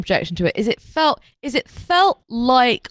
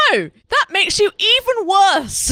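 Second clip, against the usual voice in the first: mock exasperation; 10 semitones higher than usual. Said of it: "and I'm like".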